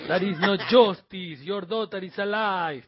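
heavy mobster Italian accent. Shown as a demonstration. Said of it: "intento hacer un acento italiano".

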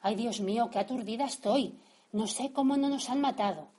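mother in the taxi, shaken after nearly being run over; nervous. Acted. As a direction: gasp it out still shaken from the near miss. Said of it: "Mamá se puso a decir muy nerviosa".

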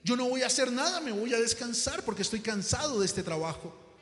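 indignant protest. Acted. Worker protests boss's late request.

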